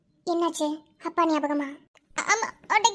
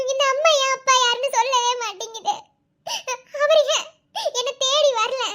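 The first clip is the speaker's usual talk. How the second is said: sobbing complaint; 3 semitones higher than usual. Acted. Girl crying about absent father.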